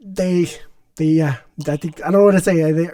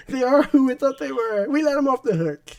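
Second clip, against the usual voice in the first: famous coach rant quote; 6 semitones higher than usual. Retold or imitated. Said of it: "I need to find a soundbite of".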